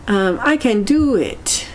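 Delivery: tentative can-do mantra; mild affirmation. Shown as a demonstration. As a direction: say it like you half believe it. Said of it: "I need this kind of energy in my life".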